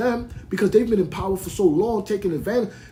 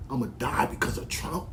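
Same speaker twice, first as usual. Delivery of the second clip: mocking quote; 7 semitones lower, 8 dB quieter than usual. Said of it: "Niggas ain't telling me about no".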